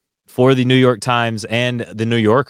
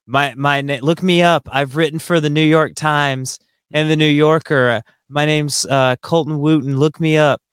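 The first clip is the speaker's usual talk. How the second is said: raised-pitch imitation of a drunk; higher mock voice of a boastful drunk; drunk man; 6 semitones higher than usual. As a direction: play the drunk insisting on himself, pitched high. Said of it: "he's very drunk".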